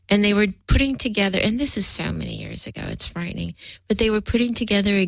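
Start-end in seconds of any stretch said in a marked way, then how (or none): 1.4-3.5 trailing off. Real, not acted. Aside about her age.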